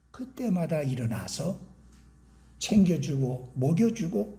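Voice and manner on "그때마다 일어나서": ordinary delivery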